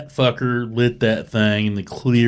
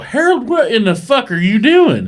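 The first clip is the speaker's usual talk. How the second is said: mock yell; 12 semitones higher, 4 dB louder than usual. Retold yelling at Harold.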